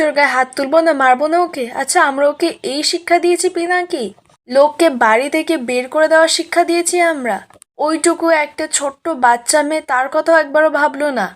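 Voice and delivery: lightly acted angry scolding; retold anger. Ishani rebukes Pinaki over the child thrown out, retold with mild anger. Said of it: "Ishani তো খুব রেগে গেছে".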